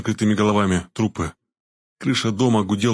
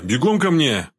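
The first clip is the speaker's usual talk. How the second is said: shout; 5 semitones higher, slower than usual. A narrator's reading. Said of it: "крикнул Боинг".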